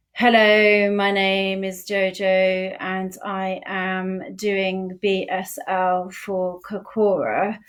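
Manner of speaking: flat, slow monotone delivery. Shown as a demonstration. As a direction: drone it out with no expression at all. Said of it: "so let me do this".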